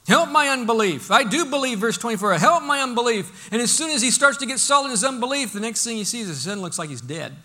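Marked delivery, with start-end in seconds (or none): 0.1-1.8 raised, higher imploring cry; retold holler. Father pleads with Jesus for his son, hollering. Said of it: "'cause that's what he hollers". 2.4-3.5 loud, raised plea; retold holler. Father begs Jesus for faith, hollering. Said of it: "that's what he hollers".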